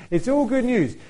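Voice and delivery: ironic cheer. Acted. Ironic setup before "not good news.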